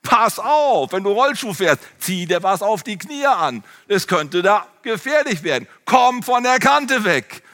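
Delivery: put-on a worried mother calling her child down; light imitation of a caring mother. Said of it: "hat sie gerufen".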